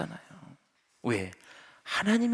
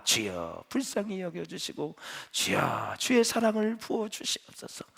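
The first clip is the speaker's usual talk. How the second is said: serene prayer; 4 semitones lower, slower than usual. Retold or imitated. Pastor's serene response now.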